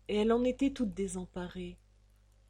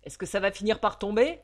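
put-on louder, hoarse old landlady; 8 dB louder, faster than usual. The landlady demanding the week's rent, hoarse and loud. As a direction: rasp it out like a boozy old hag. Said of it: "de sa voix enrouée".

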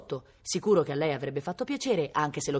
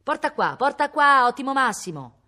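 high, loud call to a dog; excited fetch call, swelling louder; urgent command; 9 semitones higher, 8 dB louder than usual. A narrator's reading. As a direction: order the dog to bring it, more insistently. Boy orders dog to fetch.

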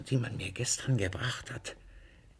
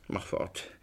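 hissed order; 6 semitones lower, 6 dB quieter than usual. Acted. Master hurrying his servant, hissed. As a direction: lower and softer, urgent.

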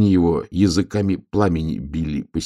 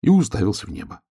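usual speaking voice

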